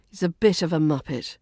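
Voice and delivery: quick, like stating a dull fact; clipped, flat intonation. Shown as a demonstration. Teacher demonstrating a mild British insult, quick and clipped. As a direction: rattle it off matter-of-factly. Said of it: "use some flat intonation".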